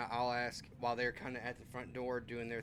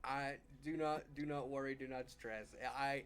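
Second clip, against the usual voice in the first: laughing reassurance; 7 dB quieter than usual. Acted. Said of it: "I laugh and go".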